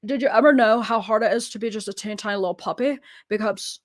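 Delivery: put-on little puppy voice; Nubby. Shown as a demonstration. Three-legged dog complaining how hard life is, puppy voice. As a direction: lament as a teeny tiny struggling puppy. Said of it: "Nubby is the three-legged dog".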